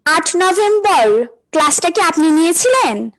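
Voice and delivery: slow repeat for a bad line. Real, not acted. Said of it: "বুঝি নাই, বুঝি নাই।".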